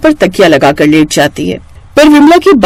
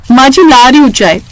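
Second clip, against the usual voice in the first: put-on a touch higher young wife answering; higher, quick reply to her mother-in-law; lightly voiced daughter-in-law; 6 semitones higher than usual. Daughter-in-law answering her mother-in-law, lightly higher.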